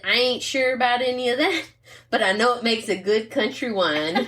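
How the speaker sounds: put-on folksy country-accent read. Woman reading the wine label to co-host, in a country accent. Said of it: "had to read that with the accent".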